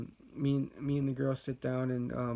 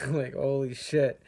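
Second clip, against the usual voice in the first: laughing; 5 dB louder than usual. Real, not acted. Recalling intense trip, laughs.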